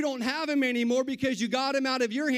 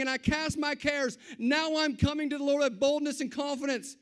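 bold prayer; 5 semitones higher than usual. Retold or imitated. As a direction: pray it boldly like you mean it. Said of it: "You come up".

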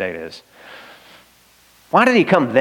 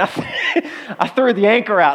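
laughing at his own panic; amused, laughing retelling; 5 semitones higher than usual. Real, not acted. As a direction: chuckle it out, a bit higher.

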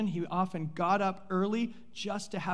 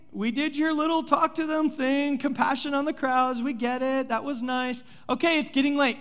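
impatient disciples; 6 semitones higher than usual. Acted. Disciples pestering Jesus to leave.

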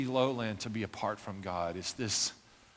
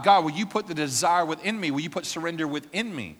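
surrender prayer; 5 semitones higher, 6 dB louder than usual. Shown as a demonstration. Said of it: "ask God".

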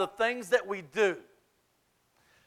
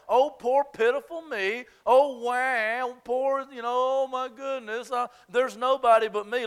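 whiny, higher pitiful Elijah voice; mock self-pity; 4 semitones higher than usual. Preacher mimics Elijah feeling sorry for himself, higher whiny. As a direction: play up a poor-me moan.

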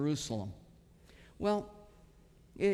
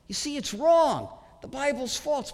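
mock critic; 5 semitones higher than usual. Voicing a mocking critic.

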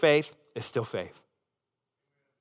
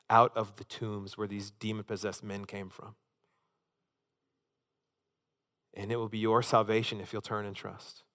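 sincere altar call, softer and lower; tender appeal; 3 semitones lower, 4 dB quieter than usual. Acted. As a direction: gently plead with the listener to turn and trust. Soft appeal after fervent peak.

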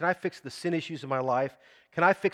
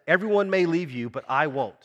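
God's promise proclaimed; 3 semitones higher, 6 dB louder than usual. Retold or imitated. Pastor voices God's promise to his church, ringing out. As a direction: declare it as God, strong and sure. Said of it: "And God says".

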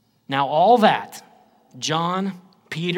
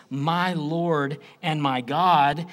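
slow and earnest; reverent; 2 semitones lower, slower than usual. Acted. Preacher showing Thomas's words as prayer, slow. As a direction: address it to Jesus, slowly. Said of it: "he's saying this to Jesus".

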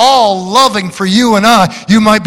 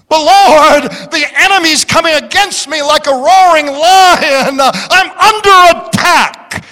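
desperate cry to the Lord; 6 semitones higher than usual. Acted. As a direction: plead for help as the enemy attacks. Voicing a believer crying out.

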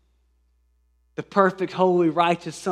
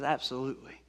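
gentle smiling master; 5 semitones lower, 7 dB quieter, faster than usual. Retold or imitated. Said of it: "smiles and says".

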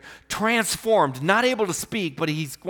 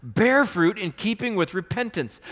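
raised voice, firm command; preached command; 4 semitones higher than usual. Acted. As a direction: urge them with force. John's command to the crowd.

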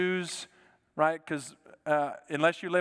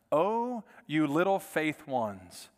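slower, tender rendering of the verse; gentle re-reading; slower than usual. Shown as a demonstration. Preacher rereading the verse with its true meaning, tender. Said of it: "The actual translation of that is little faith ones".

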